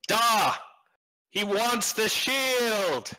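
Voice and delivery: put-on high, slow little girl calling. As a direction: call out like a young girl. GM voices the girl.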